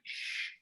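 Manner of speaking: soft, hissed shush; quiet imitated shh. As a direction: hush someone in a cinema. Son shushing dad in cinema.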